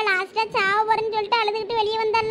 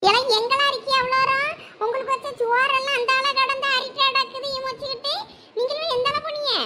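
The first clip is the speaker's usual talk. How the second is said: mother on phone; 4 semitones higher than usual. Acted.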